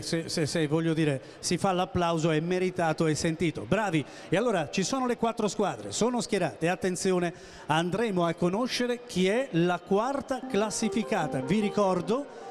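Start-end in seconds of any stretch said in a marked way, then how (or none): 4.3-11.4 italian quiz host. Acted. Host announces quiz rankings.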